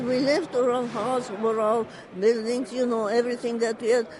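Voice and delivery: crying through the words of loss; hurried words choked by real tears. Real, not acted. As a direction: voice breaking into tears, rushed. Grief while retelling loss.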